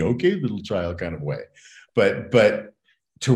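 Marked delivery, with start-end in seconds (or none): 0.0-1.0 put-on lightly condescending to a small child; a touch of talking down to a little one; mock condescending. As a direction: imitate a patronizing grown-up, lightly. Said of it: "not in a condescending".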